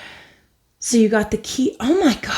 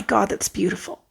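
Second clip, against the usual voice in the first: awed whisper; 5 dB quieter than usual. Real, not acted. Awed by the cards.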